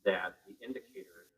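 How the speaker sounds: lightly put-on American car talk, slowed right down; mock American accent. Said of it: "the way they say it".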